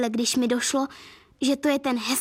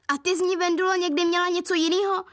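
mischievous teasing; 5 semitones higher than usual. Acted. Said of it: "křikla Irča rozpustile".

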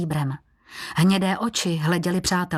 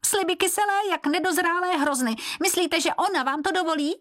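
high squeaky creature voice, defensive; a cringing servant objecting to the keeper; reproachful Běloran; 12 semitones higher than usual. Acted. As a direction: protest in a thin high squeal, rushing the last line. Servant Běloran sneers at promises.

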